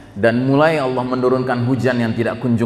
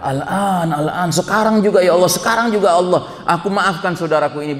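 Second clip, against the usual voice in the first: eager cry; 5 semitones higher than usual. Acted. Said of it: "Akhirnya dia teriak".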